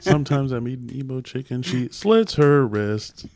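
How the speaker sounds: mock beat poet reading through laughter; laughing imitation of a beat poet. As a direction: parrot the poem while laughing. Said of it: "now you sound like a beat poet".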